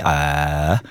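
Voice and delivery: low, drawn-out "ahh"; demo massage sound. Shown as a demonstration. DJ showing listeners massage level three, droning demo. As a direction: hold a low vibrating "ahh". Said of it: "단계를 조절해 주시면 삼 단계".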